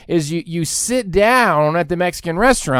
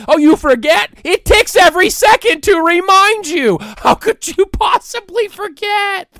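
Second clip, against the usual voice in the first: sarcastic comeback; 13 semitones higher, 6 dB louder than usual. Retold or imitated. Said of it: "I say".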